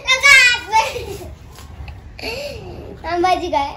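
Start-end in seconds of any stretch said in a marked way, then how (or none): 0.1-0.9 laughing. Real, not acted. Amused after the mock wailing.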